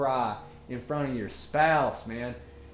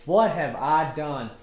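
amused dismay; 2 semitones higher, 7 dB louder than usual. Real, not acted. Host regretting his own advice, laughing dismay. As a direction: wail in mock regret, then crack up.

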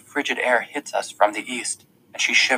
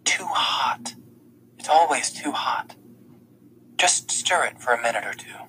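soft unvoiced whisper; whispering so nobody nearby hears; 4 dB quieter than usual. A narrator's reading. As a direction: keep it secret, just breathe the words. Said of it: "but she whispers".

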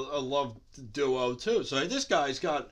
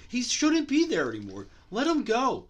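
angry rant; 7 semitones higher, 4 dB louder than usual. Real, not acted. Ranting about Lesnar.

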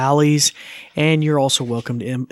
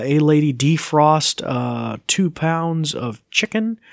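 voice command; 2 semitones higher, 3 dB louder, slower than usual. Shown as a demonstration.

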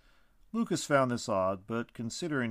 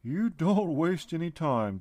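higher, louder and slow, amused teasing; 6 semitones higher, 5 dB louder, slower than usual. A narrator's reading. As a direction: tease him, still full of laughter. Tree being amused after laughing.

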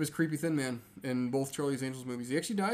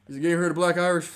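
loud, pitch raised, playing it up; mock Bernie Mac boast; 4 semitones higher, 10 dB louder, faster than usual. Bernie Mac's character bluffing the guard, loud hammed-up boast. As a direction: bluff the Irish guard loudly. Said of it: "He's like".

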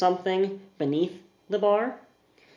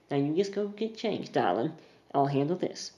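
softly; 6 dB quieter than usual. Acted. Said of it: "She says something softly".

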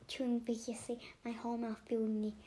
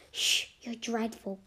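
shocked hush; 9 dB louder, slower than usual. Acted. Shocked hushing.

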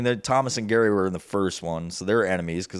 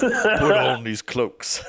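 slow, laughing mock olde English; renaissance fair olde speech; 2 semitones higher, much slower than usual. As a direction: drawl it like a fair herald. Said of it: "you gotta speak in old English".

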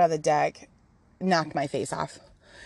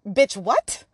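indignant disbelief; 7 semitones higher, 4 dB louder, slower than usual. Retold or imitated. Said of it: "And I was like".

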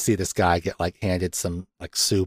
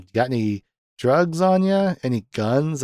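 higher-pitched mock cop questioning; imitated police questioning; 6 semitones higher than usual. Officer questions a driver at a traffic stop, imitated interrogation. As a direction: play an officer probing for contraband.

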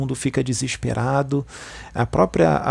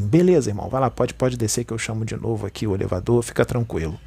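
understanding reply; 3 semitones lower, faster than usual. Shown as a demonstration. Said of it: "se você for uma pessoa compreensiva, você vai falar assim".

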